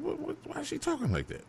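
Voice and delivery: retold disbelief. Shocked hearing her on radio.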